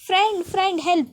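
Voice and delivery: half-acted cry out for help; calling for help. Pooja calls her friend again, mild mock cry. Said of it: "पुन्हा ओरडायला लागते".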